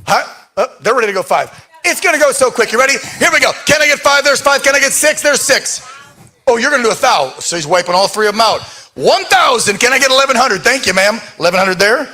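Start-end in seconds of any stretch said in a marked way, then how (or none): 1.9-12.1 quick auction calling; auctioneer. Real, not acted. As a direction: call the bids up and fast. Runs live charity auction.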